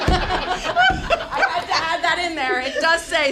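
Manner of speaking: high burst of laughter then slow words; laughing. Real, not acted. Laughing to the board at a shout out. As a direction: laugh through it.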